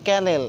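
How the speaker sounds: ক্যানেল with a plain unaspirated k; ক্যানেল said with a light k, no breath after it; old way, hard k. Shown as a demonstration. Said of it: "আগে বলতাম আমরা".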